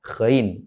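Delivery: ghain with a throaty, vibrating gh; upper-throat GHAIN. Shown as a demonstration. Teacher placing the letter, ghain from the upper throat. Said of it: "tenggorokan bagian atas".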